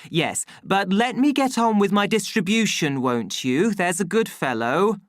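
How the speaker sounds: high, placating, hurried-along plea; fearful coaxing. A narrator's reading. Official soothing the savage, nervous coaxing. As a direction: humour him like a dangerous animal. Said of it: "With the fear of one stroking an animal".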